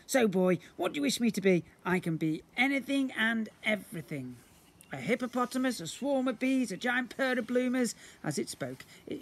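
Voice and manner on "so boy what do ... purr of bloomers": booming slime creature. Acted. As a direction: play the magical blob, grand and eager.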